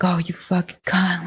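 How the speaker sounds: hissed under the breath, all air; whispered curse. Retold or imitated. Retelling the old man's cursing, whispered mock curse. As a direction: mimic the stranger's cursing in a whisper. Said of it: "just cursing at me".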